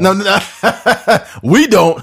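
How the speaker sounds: high laughing protest; laughing while denying. Real, not acted. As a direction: burst out laughing, no no no. Laughing denial of doggy style.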